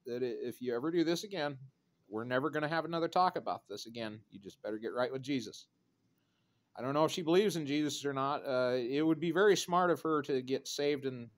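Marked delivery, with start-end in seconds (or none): 0.5-5.7 controlled ultimatum, settling softer at the end; calm warning. Pretend. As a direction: rehearse telling off a relative without heat. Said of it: "I'm going to calmly tell her".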